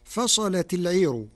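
"فصلت" with a heavy, thick lam, "العير" with a light ra; Warsh reading. Shown as a demonstration. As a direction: recite "فصلت العير", the lam of "فصلت" full and dark. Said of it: "بتغليظ اللام".

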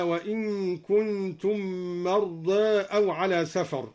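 "مرضى" with final vowel tilted toward "e"; half-raise the last aa of "مرضى"; taqlil. Shown as a demonstration. Sheikh demonstrating al-Duri's reading, "مرضى" ending between aa and e. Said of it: "قلل قوله تعالى مرضى".

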